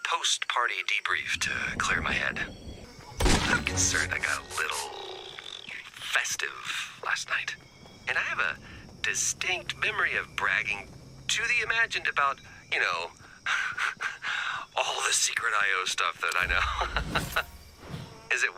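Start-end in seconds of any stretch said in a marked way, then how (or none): 3.5-7.6 low, hesitant morning-after confession; sheepish admission. Acted. Hungover, uneasy admission after party. 13.4-14.7 soft, breathy nervous chuckle; small sheepish laugh; awkward laugh. Acted. Embarrassed about bragging of secrets.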